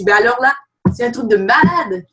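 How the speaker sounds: put-on a light touch of a French accent. A Quebec coach mimics a French accent on the team call. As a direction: try the phrase with a French accent. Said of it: "je m'en viens avec un accent français".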